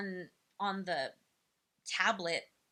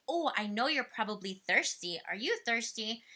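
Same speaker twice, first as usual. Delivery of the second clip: put-on asking the child. Shown as a demonstration. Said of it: "you can say something like".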